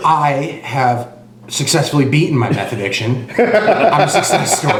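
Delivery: slow, proud, half laughing; mock proud boast. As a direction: boast like a recovery poster. Mock recovered addict boast.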